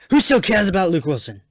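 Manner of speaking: loud, high yell of disbelief; incredulous outburst. Acted. Critic balks at a name in the cast, incredulous shout. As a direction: burst out as if outraged.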